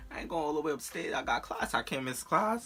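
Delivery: high, insistent retelling of her refusal; heated protest. Retold or imitated. Telling her boyfriend she has class, in a high heated protest. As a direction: push back hard, voice climbing.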